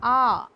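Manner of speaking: an isolated open "ah"; vowel demonstration. Shown as a demonstration. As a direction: give "ah" alone as the model sound. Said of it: "it is used as".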